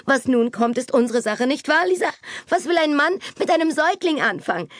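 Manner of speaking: put-on high, chattering society girl in a flurry; Kitty bursts in, scolding the maid and her sister, high and excited; excited young Kitty. A narrator's reading. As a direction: rattle it off high and breathless with excitement. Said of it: "ihre aufgeregte Stimme".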